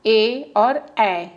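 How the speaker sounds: very slow, stretched vowel sounds; drawn-out vowels. Shown as a demonstration. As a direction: draw out each ए. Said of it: "ए का तीन है".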